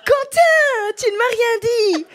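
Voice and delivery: high, laughing embarrassed protest; flustered laughing. Real, not acted. Flustered after being put on spot. (rire gêné)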